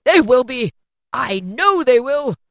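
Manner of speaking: loud, high, jubilant insistence; exultant cry. A narrator's reading. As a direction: shout each phrase in overjoyed relief. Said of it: "cried Scrooge".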